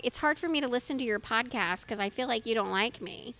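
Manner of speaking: whiny voice. Retold or imitated. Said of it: "He doesn't do it in that whiny voice. That was just my voice".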